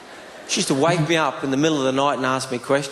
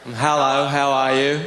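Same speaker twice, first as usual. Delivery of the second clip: slow, careful Australian hello; much slower than usual. Retold or imitated. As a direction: spell it out slowly for the locals. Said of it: "I have to speak really slowly".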